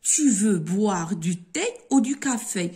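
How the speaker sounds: ordinary talk, nothing marked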